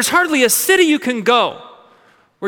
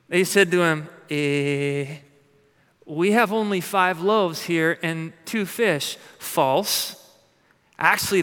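scripture reading. A narrator's reading. Reads the gospel story.

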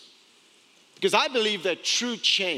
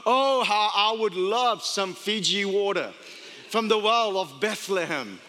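mock longing. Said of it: "David in the moment was just there like".

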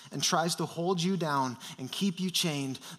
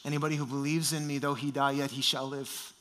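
Jesus' gentle voice; 4 semitones lower, 5 dB quieter than usual. Acted. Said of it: "And Jesus says".

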